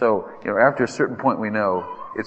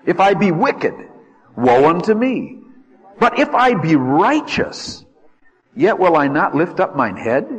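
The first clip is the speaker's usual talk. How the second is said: lament; 6 semitones higher, 5 dB louder than usual. Acted. Reading Job's lament.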